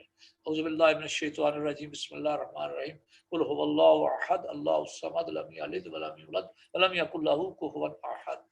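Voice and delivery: softly recited Quran verse; quiet recitation. Shown as a demonstration. Teacher softly reciting the surah as an example. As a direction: recite it gently and low. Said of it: "یہ سورہ اخلاص پڑھ چھڑا کریں".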